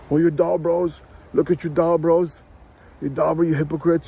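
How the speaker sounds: sneering sing-song mockery of complaining sisters; mocking the sisters. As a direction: mimic the sisters jeering at the brothers. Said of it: "What are the sisters attacking on the brothers?".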